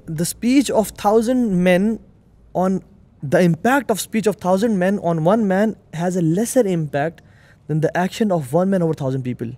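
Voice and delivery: each word of the English maxim spaced out slowly; slow emphatic quote. Real, not acted. Host hears the guest quote a maxim, slow and weighty. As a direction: lay the saying down word by word for weight. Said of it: "slow emphatic English maxim".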